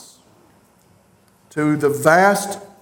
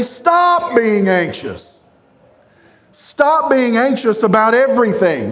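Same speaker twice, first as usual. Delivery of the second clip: firm command; 3 semitones higher than usual. Shown as a demonstration. Pastor voicing Paul's command to the church, firm and urging. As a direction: lay down the order to stop worrying. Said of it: "That's how it would sound".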